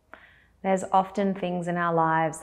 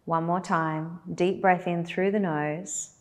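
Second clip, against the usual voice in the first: guided meditation. Acted. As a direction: lead them gently into stillness, with long pauses.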